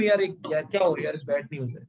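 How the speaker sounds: a gloomy hint of bad news coming; worried bad news. Shown as a demonstration. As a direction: sound troubled as you break bad news. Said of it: "जैसे अगर मैं बोलूं".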